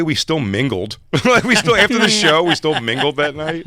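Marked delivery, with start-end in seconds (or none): 1.2-3.7 excited. Real, not acted. Laughing, amused disbelief.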